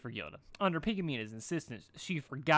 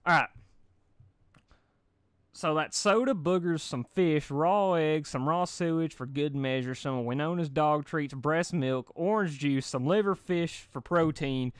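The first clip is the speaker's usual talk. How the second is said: higher, louder, savouring each item; gleeful list; 4 semitones higher, 6 dB louder, slower than usual. A narrator's reading. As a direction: relish every gross ingredient. Reading absurd ingredient list.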